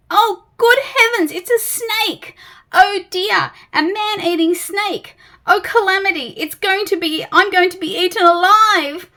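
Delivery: high, loud, fussy terror; a nervous little creature wailing in alarm; panicky Mister Jelly. Acted.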